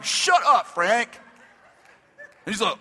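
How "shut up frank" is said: high, loud exasperated yell. Acted. Pastor to Frank over dirty jokes, yelling. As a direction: yell at a friend to quit it. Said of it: "now I'm yelling at him".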